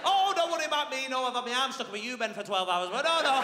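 mock him with fake sympathy; sarcastic brother. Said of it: "him seething".

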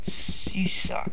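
slow annoyed whisper. Real, not acted. Whispered after dying.

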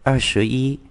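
"er sữa y" read with Mandarin tones; Mandarin twenty-one. Shown as a demonstration. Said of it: "tức là hai mươi và thêm một vào".

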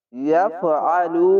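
ইয়াফআলু read very slowly with a drawn লু; slow tajweed reading of ইয়াফআলু; slow Quranic recitation. Shown as a demonstration. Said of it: "এক আলিফ টেনে পড়বেন".

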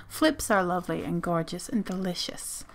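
soft breathy whisper aside. Real, not acted. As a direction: whisper it like a secret. Whispered aside about treats.

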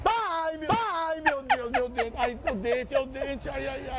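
high moaning in pain; toothache. Pretend. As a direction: groan like a throbbing tooth. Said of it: "Que eu tô com dor de dente".

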